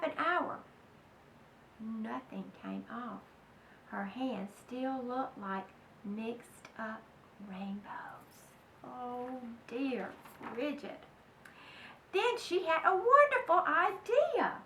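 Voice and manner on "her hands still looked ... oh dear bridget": hushed whisper of the last word; whispered storybook ending. A narrator's reading. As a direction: breathe the word out voicelessly.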